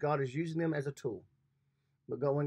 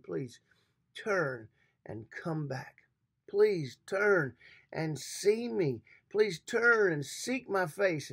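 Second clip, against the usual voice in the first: tender plea; slower than usual. Acted. God's plea voiced by preacher.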